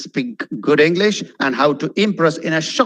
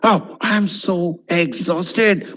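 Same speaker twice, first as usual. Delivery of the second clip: slow, drawn-out mock exhaustion; acted weariness, savouring the word; talking to oneself; much slower than usual. Shown as a demonstration. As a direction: stretch out "exhausted" as you muse. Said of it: "let me use that word".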